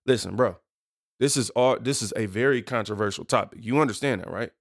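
low, measured talking-to; serious inner self. Pretend. Host warning himself of a controversial topic, stern. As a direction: lay it out low to yourself. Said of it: "have a meeting with myself".

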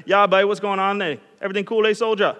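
imitated Bahamian greeting; casual, put-on Bahamian lilt; Bahamian accent. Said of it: "I would talk like them".

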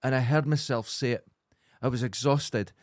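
ordinary talk

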